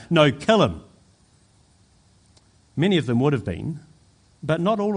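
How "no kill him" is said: loud imitation of a crowd yelling; retold yell. Preacher retelling the crowd's answer to Pilate, imitated yell. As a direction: raise the voice as the mob demanding death. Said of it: "they just yelled louder".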